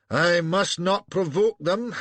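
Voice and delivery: high, slow prim quote; quoted Hardinge. A narrator's reading. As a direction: mimic a cautious governor. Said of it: "says Hardinge".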